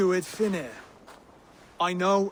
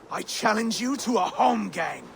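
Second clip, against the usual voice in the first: shouted challenge. Acted. Formal duel challenge.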